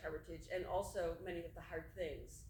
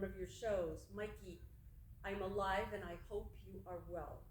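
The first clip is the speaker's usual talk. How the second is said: measured poem recital with long pauses; poetry reading. Acted. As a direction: read it as verse, phrase by phrase. Reads second poem aloud.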